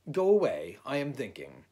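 irritated dismissal. A narrator's reading. Owl to whoever is knocking at his door, irritated. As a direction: shoo the caller away loudly.

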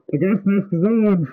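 muffled behind a rubber mask; through a gas mask. Real, not acted. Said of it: "Oh, for the love of God".

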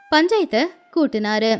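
usual speaking voice

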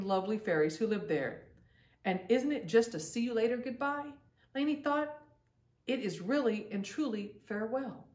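gentle storybook reading with voiced girls; story narration. A narrator's reading. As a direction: read it like a bedtime story for kids. Reads children's story aloud.

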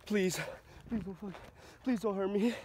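pleading softly in fear; terrified horror victim. Real, not acted. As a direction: beg for mercy, trembling. Begging the spirit not to hurt.

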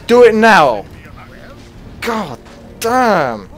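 loud furious swearing; raging. Real, not acted. Gamer cursing at the leech, furious. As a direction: spit the curses out. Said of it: "There's some fucking rage".

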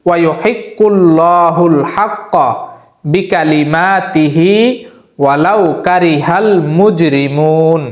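very slow, drawn-out chanting of the verse; very slow Quran recitation. Shown as a demonstration. Teacher repeating the verse for memorizing, very slow drawn-out recitation. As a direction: stretch every word so it can be learned. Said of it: "আবারও বলছি".

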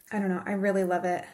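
usual speaking voice

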